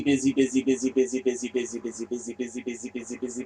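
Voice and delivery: a repeated busy trailing off into quiet; fading repetition. Acted. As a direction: let the word dwindle away.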